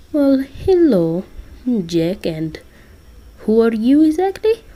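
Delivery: put-on lightly accented Russian Santa; bad Russian accent. Santa greeting Jack and a stranger, bad Russian accent. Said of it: "I'm terrible at doing a Russian accent".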